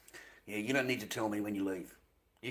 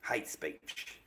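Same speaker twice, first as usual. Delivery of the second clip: whispered; 4 semitones lower, 8 dB quieter than usual. Real, not acted. Repeating the ban reason.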